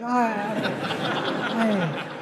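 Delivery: soft, drawn-out "ah" of feigned pain; mock pained groan. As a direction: groan quietly as if kindness hurts your ribs. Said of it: "your ribs hurt".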